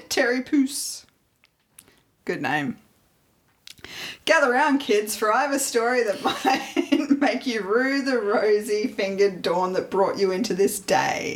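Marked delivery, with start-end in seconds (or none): 4.2-11.4 hushed creepy legend telling. Pretend. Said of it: "Oh, very emotive".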